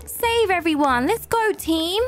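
rallying the team. Pretend. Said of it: "I could beckon".

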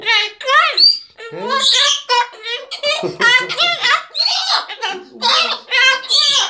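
loud high laughing shriek; shrieking laughter. Real, not acted. Laughing hard reading names.

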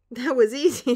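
mock call down. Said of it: "shouting down".

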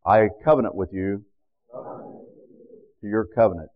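measured, slow prayer lines for the congregation to echo; solemn prayer lines for the church to repeat; call-and-response prayer. Shown as a demonstration. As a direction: lead the prayer phrase by phrase, slowly. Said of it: "I want you to repeat now after me".

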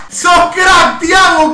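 loud praise for the scorer; hyped-up shout of praise; excited cheer. Real, not acted. Cheering the goalscorer.

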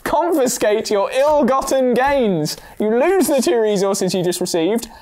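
dramatic card read. Acted. Dramatic reading of penalty card.

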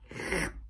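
short breathy gasp of alarm; startled gasp. A narrator's reading. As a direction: gasp at a dreadful noise. Wolf hears a dreadful noise.

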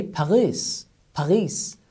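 "Paris" with a French throaty r like ghain. Retold or imitated. Teacher imitates French people saying Paris. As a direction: gargle the r in "Paris", French style. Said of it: "they say".

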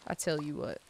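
mild Southern accent; Southern drawl. Shown as a demonstration. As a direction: settle into a light Southern phrase. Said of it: "it does come out when I say".

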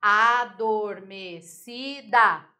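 "Adormecida" very slowly split a-dor-me-ci-da; five separate beats in "Adormecida": a, dor, me, ci, da; slow, deliberate a... dor... me... ci... da; syllable by syllable. Shown as a demonstration. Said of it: "Quatro ou mais sílabas".

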